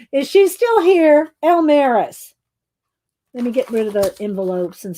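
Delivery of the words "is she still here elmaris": high, louder call across the room; playful raised call. Real, not acted. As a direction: call her name to get her attention. Calling out to chatter.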